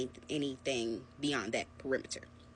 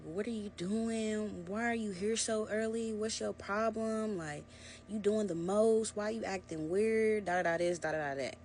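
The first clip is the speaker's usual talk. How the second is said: put-on boyfriend's accusing questions; 5 semitones higher than usual. Boyfriend on the phone grilling her, mock accusing. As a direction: imitate his pushy questioning, pitched up. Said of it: "he's like".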